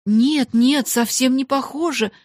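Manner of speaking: high, loud earnest denial; impassioned contradiction; exclaiming. A narrator's reading. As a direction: rush to reassure the friend emphatically. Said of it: "воскликнула Эрмингарда".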